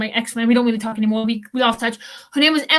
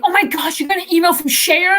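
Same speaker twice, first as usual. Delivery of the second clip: imitating a coworker, higher and amazed; nosy coworker's surprise; 6 semitones higher than usual. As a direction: mimic the nosy guy gasping over the email. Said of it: "He's like".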